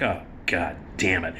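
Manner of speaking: low, soft, sunken groan of defeat; deflated. Retold or imitated. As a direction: imitate the air going out of him. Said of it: "he was deflated".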